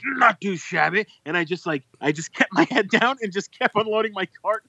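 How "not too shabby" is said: lightly high, slowish cheery reply; a hint of the overeager cashier; a lighter cashier imitation. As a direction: repeat the cashier line less broadly. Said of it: "he goes".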